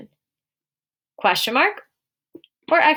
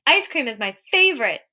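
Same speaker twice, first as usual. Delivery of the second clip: higher-pitched enthusiasm; excited; 4 semitones higher than usual. Shown as a demonstration. Teacher voicing someone who likes ice cream, excited. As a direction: declare it with happy excitement. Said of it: "Someone is excited about how much".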